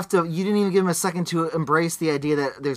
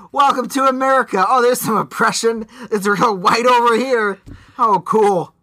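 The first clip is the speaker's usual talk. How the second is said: mock voice; 5 semitones higher, 6 dB louder than usual. Mocking a white supremacist sprinkler.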